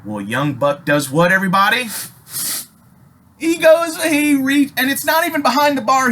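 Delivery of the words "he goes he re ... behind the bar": pitched way up in disbelief; incredulous high voice. Real, not acted. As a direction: tell the climax high, easing down at the end. Incredulous climax of the bar story.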